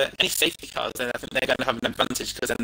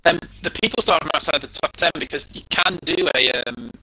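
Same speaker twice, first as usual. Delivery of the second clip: glitchy robotic voice over chat; robotic, garbled party-chat audio. Real, not acted. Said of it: "I apparently still sound like a robot".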